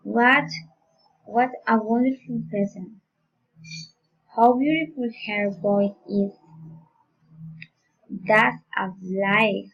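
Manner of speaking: exclamations sliding down from "wonderful" and "beautiful"; falling exclamatory intonation. Shown as a demonstration. Teacher modelling exclamatory sentences, falling intonation. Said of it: "falling intonation".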